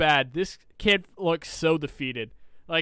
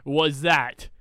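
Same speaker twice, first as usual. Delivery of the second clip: slow, drawn-out disbelief; asking his friend slowly, stunned disbelief; much slower than usual. Retold or imitated. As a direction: let each word hang in disbelief. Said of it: "I was just like".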